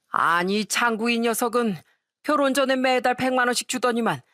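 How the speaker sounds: lightly voiced drunken complaint; drunk father-in-law. Drunk father-in-law complains about his son to the daughter-in-law, grumbling. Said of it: "만취한 시부가 하는 얘기에".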